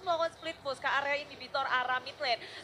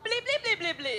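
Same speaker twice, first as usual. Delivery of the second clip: alien voice; 8 semitones higher than usual. Pretend. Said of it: "Pantun pakai bahasa alien dong".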